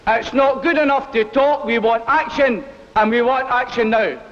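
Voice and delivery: rally speech. Acted. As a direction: demand it from the platform. Miner delegate demanding action.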